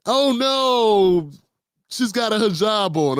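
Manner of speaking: high, hammed-up fake panic; mock alarmed white lady. Mocking the woman who pretends she's being attacked, in a put-on alarmed voice. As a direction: lightly play the woman crying victim.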